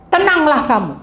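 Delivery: rebuking command. Retold or imitated. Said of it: "Tuhan hanya menghardik".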